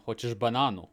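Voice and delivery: Hoćeš bananu said in Serbian; casual Serbian offer. Shown as a demonstration. Australian switching to Serbian, casual Serbian. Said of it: "Or in Serbian".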